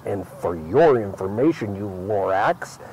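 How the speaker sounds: put-on reading a rhyming story to a child; lilting read-aloud for a little one; storybook reading. A narrator's reading. Reads The Lorax aloud.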